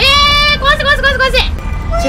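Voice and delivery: high, loud chant to smash; gleeful cheering. Real, not acted. Smashing the girl's dollhouse, high excited chant. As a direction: egg yourself on.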